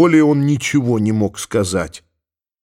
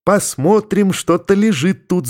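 shouting; 6 semitones higher than usual. A narrator's reading. The girls shout as they rush to untie the sack. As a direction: call it out to the whole room. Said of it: "закричали все".

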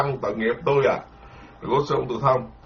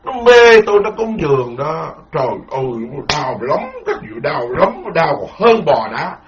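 smug monk. Acted. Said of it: "vô đức nói".

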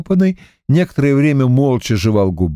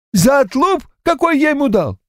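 put-on high, helpless old man's voice, much higher; lost, bewildered old man. A narrator's reading. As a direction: ask it as a dazed grandad who can't believe it.

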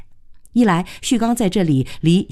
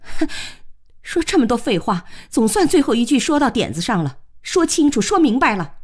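scornful huff, then higher-pitched retort; venting anger; 5 semitones higher than usual. Acted. Woman answering a man's challenge, venting anger. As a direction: fire back with pent-up resentment. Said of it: "把这些天的怒气、怨气一并发了出来".

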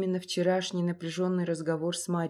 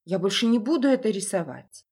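put-on raised, earnest young boy voice; pleading boy; 6 dB louder than usual. Frightened boy pleads with father.

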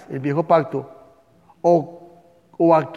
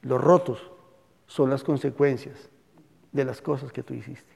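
tender father; 2 semitones lower, 4 dB quieter than usual. Retold or imitated. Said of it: "El papá le dijo".

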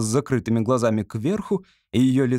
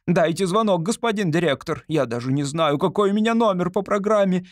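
higher, hurried actress chatter; nervous actress backstage; 6 semitones higher than usual. Acted. Actress talking to an imagined friend backstage, eager. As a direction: bustle before going on stage. Actress before going on stage.

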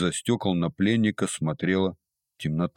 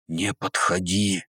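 slow, hissing like a snake; hissed warning; slower than usual. A narrator's reading. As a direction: hiss it slowly, like a cornered snake. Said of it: "девушка прошипела, словно змея". (медленно шипит, как змея)

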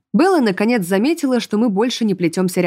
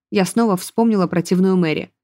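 plain reading voice

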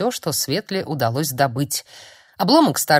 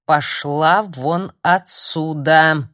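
slow, louder furious order; angry; 4 dB louder, much slower than usual. Acted. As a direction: spit it out slowly in rage. Furious sorcerer drives girl out.

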